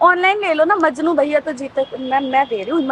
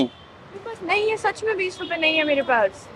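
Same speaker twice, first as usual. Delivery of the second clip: hushed, softer, nervous reply; voice gone quiet; 2 semitones higher, 6 dB quieter than usual. Real, not acted. Cornered girl answers the goon quietly. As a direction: drop the voice right down, half-scared. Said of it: "तुम्हारी आवाज धीमी हो गई अब".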